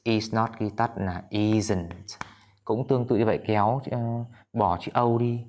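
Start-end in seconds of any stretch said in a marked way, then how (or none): 0.0-2.2 isn't, said slowly and clearly as one word; teacher modelling the contraction isn't; slow contraction demo. Shown as a demonstration. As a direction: spell out isn't slowly for the class. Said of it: "ghi tắt hay sao các bạn".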